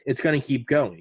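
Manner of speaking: mild mock fatherly scolding; stern father. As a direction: lecture him like a dad, firmly. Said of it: "I felt like I was getting disciplined by my father".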